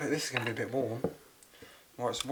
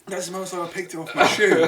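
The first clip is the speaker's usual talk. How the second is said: laughing disgust; 7 semitones higher, 13 dB louder than usual. Real, not acted. Disgusted reaction while laughing.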